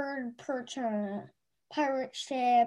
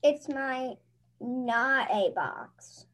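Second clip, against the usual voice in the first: put-on slow kid voice; slower than usual. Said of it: "Elliot's gonna read the kid voice".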